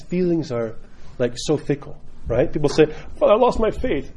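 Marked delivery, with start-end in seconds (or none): 3.2-4.1 higher-pitched mock distress; dramatic. People telling Father of lost faith, mock dramatic. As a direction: imitate an overwrought confession. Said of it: "So stop being dramatic".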